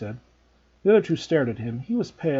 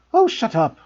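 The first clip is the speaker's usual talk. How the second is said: irritated; 9 semitones higher, 6 dB louder than usual. A narrator's reading. Irritated retort.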